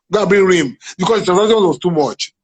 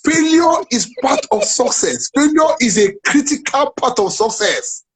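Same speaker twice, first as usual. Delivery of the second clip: slow maxim; 5 semitones higher, slower than usual. Real, not acted. Motivational maxim, slowed.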